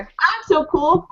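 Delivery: drawn-out boastful villain; lazily self-satisfied mock villain; slow smug brag. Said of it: "He's like".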